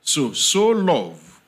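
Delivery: "so" repeated, slow and drawn out; slow, insistent weight on "so"; emphatic "so". Shown as a demonstration. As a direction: stretch "so love" to stress it. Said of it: "is an emphasis on love".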